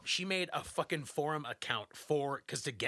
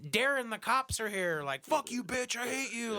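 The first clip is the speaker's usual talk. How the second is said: mock family fight; 7 semitones higher than usual. Family fighting behind a game mic, lightly voiced. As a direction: act out a family shouting match lightly. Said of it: "and like".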